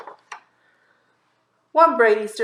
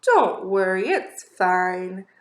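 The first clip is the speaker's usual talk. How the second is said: reassuring; 4 semitones lower, much slower than usual. Acted. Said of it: "being nice".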